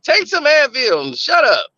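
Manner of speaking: imitating a curt, impatient command; dismissive order. Nurse girlfriend dismissing his headache, curt imitation. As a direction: brush off the complaint, mock impatient.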